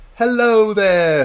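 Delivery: very high, loud, big belted-out delivery. Redoing the greeting of Oliver from Broadsword Wargaming: Braveheart-like Oliver impression. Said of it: "Went a little bit Braveheart".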